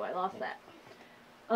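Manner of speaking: slow, breathy mock-mournful whisper; slow playful whisper of defeat; mock tragic whisper. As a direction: whisper it like a dramatic loss. Mock-tragic confession of lost mojo.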